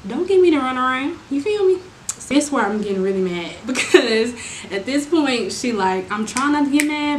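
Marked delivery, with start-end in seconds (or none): 0.1-1.8 louder, climbing up high on you feel me; annoyed attitude. Real, not acted. Fed-up customer calling out the seller's runaround with attitude. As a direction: call out the runaround with sass.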